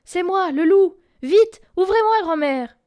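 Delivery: high, loud urgent call; frantic high shout; urgent plea. A narrator's reading. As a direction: beg to be let in fast. Wolf begs at the door.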